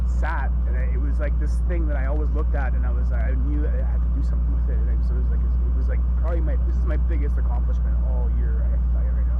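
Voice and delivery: loud, fervent, choked-up pride; emotional outpouring. Real, not acted. Owner telling viewers about the yard engine, loud and emotional. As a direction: pour it out, nearly crying.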